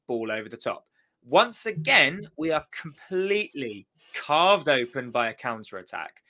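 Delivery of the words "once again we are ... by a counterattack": teacher voice. Real, not acted. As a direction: scold like a cross teacher. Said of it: "I'm starting to use my teacher voice because I'm getting really cross".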